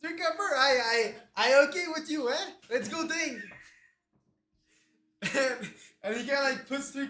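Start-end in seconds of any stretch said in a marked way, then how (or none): 0.0-3.4 put-on lively accented barfly making a wager; accented tavern gambler. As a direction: haggle like a tavern drinker. Game master plays gambling drinker.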